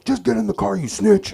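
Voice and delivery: high, loud mom voice; mock mom scold. Mom on the phone scolding her son, loud and high. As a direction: tell him off like an annoyed mom.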